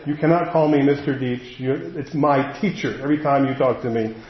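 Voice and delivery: lightly acted aloof teacher, a little low; cold, distant teacher. Schoolteacher putting a student in their place, mildly cold and distant. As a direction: put a touch of chilly distance between you and the student. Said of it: "your teacher is very cold and distant".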